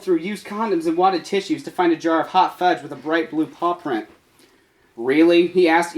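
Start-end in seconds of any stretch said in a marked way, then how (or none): 5.0-5.5 irritated. Acted. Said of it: "irritated at the fact".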